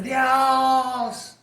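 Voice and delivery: high, drawn-out shout to God; tremendous cry. Retold or imitated. Man crying out to God in the temple, high drawn-out shout. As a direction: cry out loud, stretching the word. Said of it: "se oían unos gritos tremendos".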